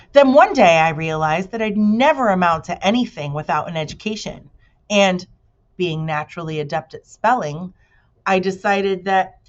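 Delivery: mild bee storyteller; lightly voiced bee. Bee character voice.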